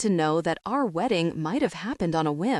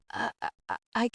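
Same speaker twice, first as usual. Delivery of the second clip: breathless, broken sobbing start; blubbering; 6 semitones higher than usual. A narrator's reading. Girl sobbing in the cinema over a dead villain. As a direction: choke the words out through tears.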